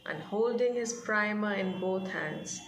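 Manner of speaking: reading the passage aloud, gently paced; measured read-aloud narration; story reading. A narrator's reading. Teacher reads story passage aloud.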